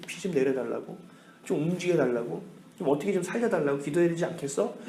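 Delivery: subdued, mildly desperate murmuring; acted despair. Famine-stricken villagers resolve to pray to Baal, understated despair. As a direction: softly voice people at a loss. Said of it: "절망적인 상황 가운데 사람들이 얘기하는".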